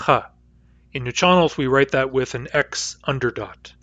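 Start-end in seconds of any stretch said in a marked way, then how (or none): 0.1-0.2 H as a rasp further back at the uvula; uvular fricative demo. Shown as a demonstration. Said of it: "h sound".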